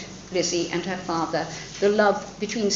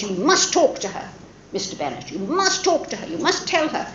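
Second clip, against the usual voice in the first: fussing mother; 4 semitones higher than usual. Retold or imitated. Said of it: "And she says".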